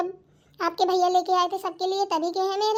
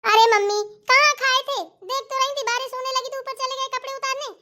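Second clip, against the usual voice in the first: higher-pitched aggrieved explanation; put-upon complaint, pitched up; protesting self-defence; 4 semitones higher than usual. Acted. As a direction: plead your case to mother-in-law. Defending herself to mother-in-law.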